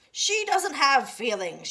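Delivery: loud, slow scolding yell; angry shout. Acted. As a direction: shout it down flatly. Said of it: "shouted Eugenia".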